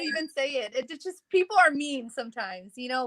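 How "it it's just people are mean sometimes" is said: stumbling over the first words; nervous restart, repeating "it"; stutter. Real, not acted. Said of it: "if I stutter".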